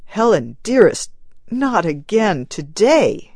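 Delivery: a pleading husband, lightly voiced; husband begging his grieving wife to stay. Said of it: "he begged".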